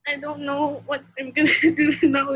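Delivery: tearful voice breaking into sobs; crying through the words, barely holding on; crying, worn out. Real, not acted. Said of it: "I can't stop crying".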